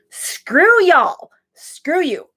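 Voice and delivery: high-pitched mock scoff; playful jab. Real, not acted. Bragging about old CD art, cheeky high scoff. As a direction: toss off a cheeky insult.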